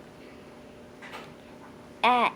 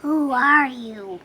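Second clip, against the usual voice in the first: dragon roaring; 2 semitones higher, 10 dB louder than usual. A narrator's reading. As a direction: blast the question at her. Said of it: "roared the dragon".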